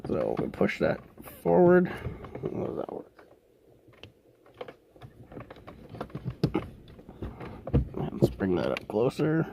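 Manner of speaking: heavy breath while straining. Real, not acted. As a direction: puff through the words, breathing hard. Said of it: "Sorry if I'm breathing heavy".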